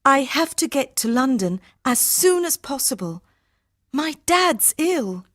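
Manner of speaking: high-pitched worried plea; urgent pleading. Acted. Harminder must reach her ill dad, pleading urgently.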